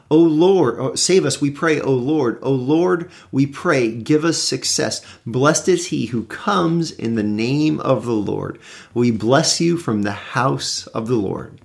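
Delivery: slow prayerful psalm reading; scripture reading. Acted. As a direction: pray the psalm, slowing at the end. Reads Psalm 118 aloud.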